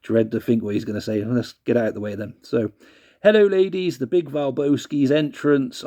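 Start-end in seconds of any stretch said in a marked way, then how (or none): 3.2-5.8 wrong Val Venis voice. Retold or imitated. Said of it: "he wouldn't say it like that".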